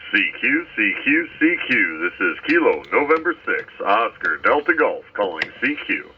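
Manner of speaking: fading shortwave radio. Real, not acted. CQ call over shortwave radio.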